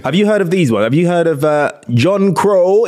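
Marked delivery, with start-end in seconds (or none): 1.9-2.9 drawn-out reading. Shown as a demonstration. Reading out slang with relish.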